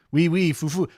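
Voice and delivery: put-on French accent. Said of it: "your French accent is questionable".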